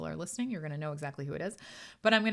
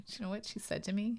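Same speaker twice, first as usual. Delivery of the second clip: unvoiced conspiratorial whisper; 4 semitones higher, 5 dB quieter, faster than usual. Real, not acted. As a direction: lean in and whisper it like a secret. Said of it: "conspiratorial aside".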